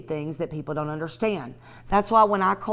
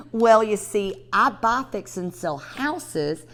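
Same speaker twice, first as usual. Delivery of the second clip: bright, upbeat sales call, pitched up; friendly cold call. Shown as a demonstration. Teaching realtors a cold call, cheerful phone voice. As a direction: sound like you're smiling on the phone. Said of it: "I'm gonna do it one more time".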